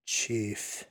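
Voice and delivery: soft, falling attempt at Chief; tentative repeat. A narrator's reading. The Indian nods and tries to repeat, tentatively. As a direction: try the word Chief out quietly, pitch falling. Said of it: "tries to repeat".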